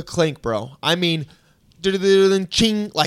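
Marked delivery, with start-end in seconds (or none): 1.8-2.9 loud vocalized rattle and clang; punchy mouth-made sound effect; imitated cell-door noise. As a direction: mimic bars rolling and slamming shut. Imitates cell bars slamming shut.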